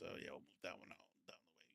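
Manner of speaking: hushed backstage note, barely voiced; whispered aside. Real, not acted. Host whispering a side note to the cohost.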